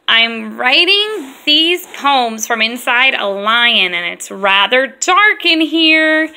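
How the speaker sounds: slow, drawn-out storytelling read; poem read aloud. Acted. Mom reading a silly lion poem to her girls, slow and playful. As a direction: savour each line of the poem.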